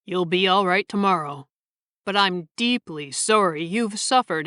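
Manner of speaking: measured storyteller reading; story narration. A narrator's reading. Narrator reading a short story to listeners, measured storytelling. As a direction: read the tale aloud, evenly.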